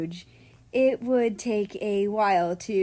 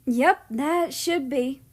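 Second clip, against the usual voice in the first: relieved sigh; 5 semitones higher, 4 dB louder, slower than usual. A narrator's reading. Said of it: "America sighed in relief".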